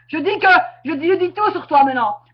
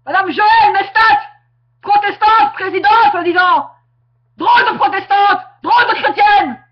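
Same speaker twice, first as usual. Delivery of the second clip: contempt. Real, not acted. Insulting her in a rant.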